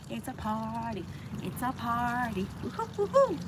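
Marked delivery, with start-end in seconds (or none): 2.6-3.4 high, whooping celebration; excited cheer. Real, not acted. Cheering viewers for reaching forty, high and excited. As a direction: cheer like you just hit a goal.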